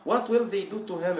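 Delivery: teacher raises the suspense about Rasandel; suspenseful question. A narrator's reading. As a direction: ask it like a cliffhanger. Teacher builds suspense in the story.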